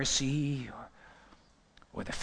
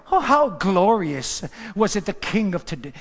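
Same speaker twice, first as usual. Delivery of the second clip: mocking and loud; Michal's loud mocking sarcasm; sarcastic; 5 semitones higher, 7 dB louder than usual. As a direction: sneer it as the scornful wife. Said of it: "look at the sarcasm".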